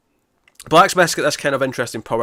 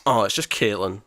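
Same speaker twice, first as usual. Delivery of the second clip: mock let-down, emphasised delivery; a touch of exaggerated disappointment; disappointed; 3 semitones lower than usual. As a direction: imitate someone upset and deflated. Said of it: "he was, he was upset".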